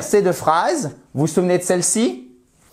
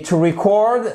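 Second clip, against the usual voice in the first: "to record" said to ree-CORD; stress on second syllable; 5 semitones higher than usual. Shown as a demonstration. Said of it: "ça se prononce exactement comme". (« to record » prononcé ri-CORD, accent sur la fin)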